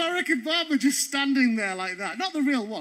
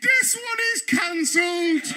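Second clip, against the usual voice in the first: slow, raised official call; mock official announcement; 5 semitones higher, slower than usual. Ed tells the queue the photo is off in a raised official voice. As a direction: announce it like staff. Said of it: "he just went".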